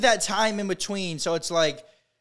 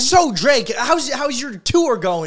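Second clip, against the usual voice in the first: generic interviewer; 4 semitones higher, 4 dB louder than usual. Retold or imitated. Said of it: "All the interviewers are like".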